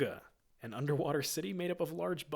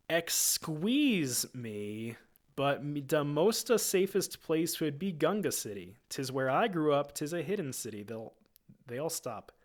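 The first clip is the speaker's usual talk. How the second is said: Jar Jar voice; 2 semitones higher, 4 dB louder than usual. Acted. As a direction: babble on like a goofy Gungan. Jar Jar voice, explaining.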